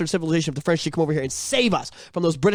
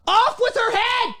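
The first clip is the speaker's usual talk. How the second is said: mock royal decree; slower than usual. Quoting the queen line.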